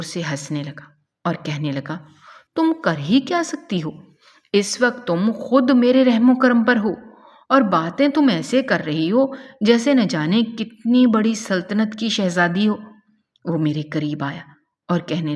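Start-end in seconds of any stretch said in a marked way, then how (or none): 2.6-12.8 mocking taunt. Captor mocks the helpless girl.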